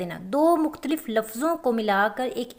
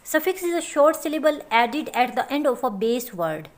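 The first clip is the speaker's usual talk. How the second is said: slow dictation; much slower than usual. Shown as a demonstration. Dictating a definition slowly.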